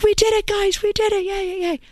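mock Aussie cheer for the team; Australian accent. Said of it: "Why did you give her your Cockney accent there?".

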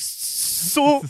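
high, loud blurted Sou; stammered shout. Retold or imitated. Comedian answering the stuttering boy with a loud high yelp. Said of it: "eu digo".

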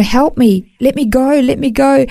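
desperate plea. Retold or imitated. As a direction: beg strangers to let you go.

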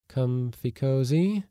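high, slow teasing question; ironic. A narrator's reading. Inner censor asking the sleepy man, high and ironic. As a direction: draw it out high, needling with mock concern. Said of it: "asked his ironic censor".

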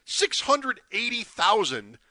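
barely getting the words out; overwhelmed. Real, not acted. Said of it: "I can't even say it".

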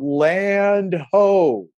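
high, loud lookout cry across the sea; yelled lookout call. Retold or imitated. Lookout in the crow's nest calling to becalmed crew, loud high yell. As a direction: shout it like a sailor spotting land. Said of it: "he yells out".

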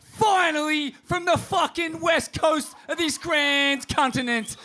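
shouted welcome to the crowd, drawn out; hyped show opener. Real, not acted. Host greeting the crowd at a live podcast, hyped shout. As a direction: whip the crowd up as you open the show.

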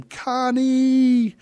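loud high mock Khan yell; Connie scream. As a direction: scream her name to the sky like the movie. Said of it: "so sometimes I just scream".

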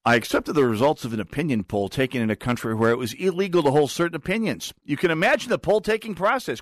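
observer's voice. Retold or imitated. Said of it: "in their voice".

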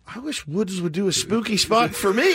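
lightly voiced pleading customer; client's request. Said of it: "every client's gonna go".

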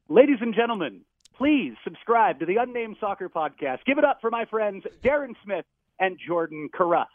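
hammed-up stadium announcer intro. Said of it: "Yeah, in your P A voice".

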